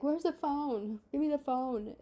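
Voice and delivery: imitating her own frantic demand for the phone. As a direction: grab for the phone in a retold frenzy.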